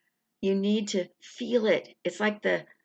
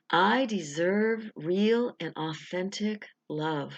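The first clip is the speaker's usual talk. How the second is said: slow, deliberate affirmation; slower than usual. Shown as a demonstration. Coach leading the first of three affirmations, slow. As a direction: let each word land slowly. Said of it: "And a third time".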